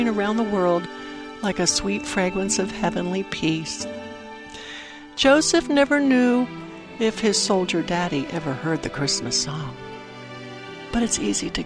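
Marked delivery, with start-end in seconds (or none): none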